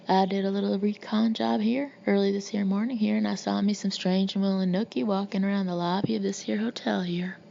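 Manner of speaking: a hint of a good-old-boy Texas accent; understated Texas accent; strong Texas accent. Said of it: "With a strong Texas accent".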